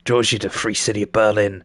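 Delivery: lightly gruff cyberpunk narrator. Acted. Narrator talking about your life, in a gruff voice. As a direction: read it as a gruff storyteller. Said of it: "so I can do the gruff voice".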